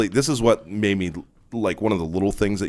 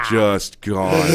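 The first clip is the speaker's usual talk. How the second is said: ordinary talk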